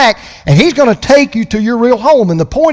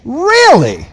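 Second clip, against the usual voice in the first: louder; 7 semitones higher than usual. Real, not acted. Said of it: "Say it a little louder".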